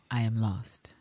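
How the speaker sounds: breathy whisper of despair; whispered line. Acted. Reading a desperate French love line in a whisper. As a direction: let it fall to a whisper.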